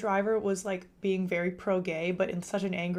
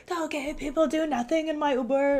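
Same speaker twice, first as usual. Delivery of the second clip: high-pitched mock Jamaican accent; raised, emphatic Jamaican-accent imitation; imitated Jamaican man; 6 semitones higher, 4 dB louder than usual. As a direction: put on the Jamaican driver's insistent voice. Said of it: "He said".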